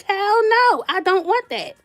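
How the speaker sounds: high, firm outraged no; retold loud refusal. Guest refusing host a third time, loud and firm. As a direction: shut it down flat, appalled.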